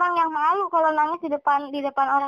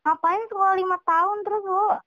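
sneering gossip; 3 semitones higher than usual. Retold or imitated. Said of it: "banyak yang nyinyirin".

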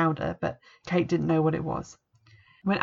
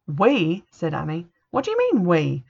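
incredulous; 4 dB louder than usual. Acted. Annie balks at helping.

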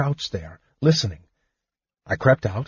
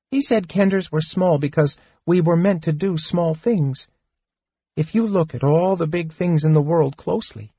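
higher kender voice, earnest and reflective; kender voice, thoughtful; 7 semitones higher than usual. A narrator's reading. Tass repeating his father's words to Fizban, earnest.

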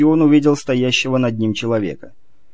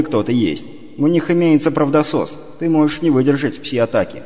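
stern inner voice; 3 semitones higher than usual. Acted. Inner voice lecturing Ivar.

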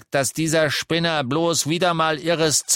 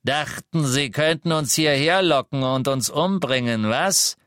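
higher and louder, sneering accusations; contemptuous interrogation; angry Death Eater; 6 semitones higher, 4 dB louder than usual. A narrator's reading. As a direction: Selwyn taunting the liar. Selwyn accuses Lovegood.

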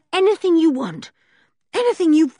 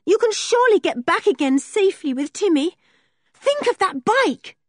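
high, louder, desperate pleading; wild urgency; 12 semitones higher, 5 dB louder than usual. Acted. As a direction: promise anything, frantic. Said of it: "said George wildly".

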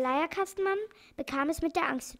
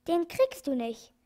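very energetic; 3 semitones higher, 3 dB louder than usual. Acted. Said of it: "sagt der Doktor sehr energisch".

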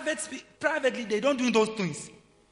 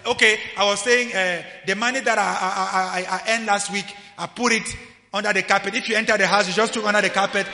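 loud, even public broadcasting voice; microphone announcement; 10 dB louder than usual. Acted. Preacher mimics someone telling secrets over a microphone, blaring. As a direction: announce a private matter loudly to everyone. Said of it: "You say that in the microphone everywhere".

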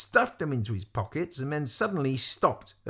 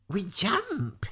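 alarmed; 8 semitones higher than usual. A narrator's reading. Lavender alarmed at jumping.

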